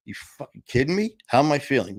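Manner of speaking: mock disbelief at a stupid question; indignant retort. Acted indignant retort to doctors.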